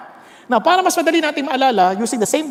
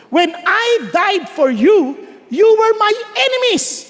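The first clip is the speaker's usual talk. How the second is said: voice of God; 9 semitones higher, 4 dB louder, slower than usual. Retold or imitated. Voicing God's words.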